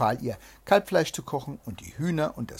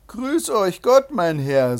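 loud, slow, high hail; hailing greeting; 6 semitones higher, 9 dB louder, slower than usual. A narrator's reading. Third trickster greets the rider, hailing loudly. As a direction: draw out a booming greeting, then let it fall.

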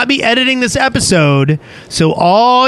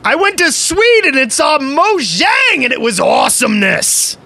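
high, excited shout; excited message read; 7 semitones higher than usual. Acted. Co-host reading a fan's sponsor message, excited.

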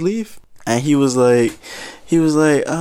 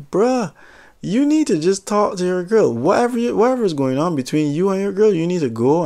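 high exasperated bruh; 5 semitones higher than usual. Retold or imitated. Clerk telling the man to talk to his girl, exasperated. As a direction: throw up your hands, fed up.

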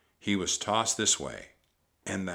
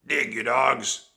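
loud, slow, raised bellow; drawn-out shouted command; pirate captain's cry; 5 semitones higher, 9 dB louder, slower than usual. A narrator's reading. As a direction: bellow the order at your crew. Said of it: "cried Captain Bones".

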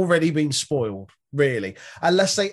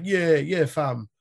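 mock East London grime; slower than usual. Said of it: "like, East London grime".

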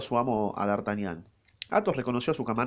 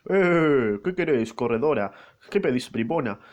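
grito de Grimaud; 4 dB louder, slower than usual. Acted. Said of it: "esta vez la palabra le vino".

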